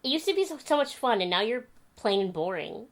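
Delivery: high mock old man, laughing at the end; clerk's verdict. Clerk telling her she's now plain, high mock voice. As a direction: sing out the insult like the clerk. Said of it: "And he goes".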